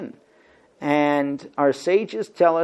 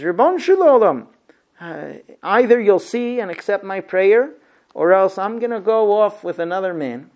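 fervent plea; 3 semitones higher, 4 dB louder than usual. Retold or imitated. Hannah bargaining with God.

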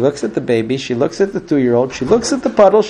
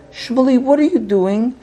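exasperated mother; 8 semitones higher than usual. Acted. Mother finds eggs on the floor.

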